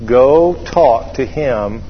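slow, measured prompting; lightly voiced inner nudge, word by word; little inner voice. Little voice bubbling up inside pilot, slow prompting. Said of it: "this little voice bubble up and say".

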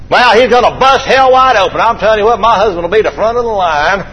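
high, punchy opening in a mock wife's complaint; griping wife. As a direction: play the exasperated wife telling it straight. Voicing a wife griping about husband.

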